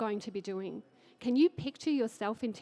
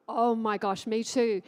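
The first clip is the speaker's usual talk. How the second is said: excited; 6 dB louder than usual. Acted. Excited recall of trading joy.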